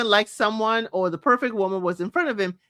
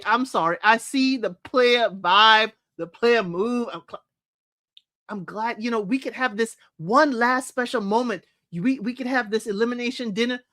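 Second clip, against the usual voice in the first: smooth player. Retold or imitated. Voicing Steven's smooth farewell.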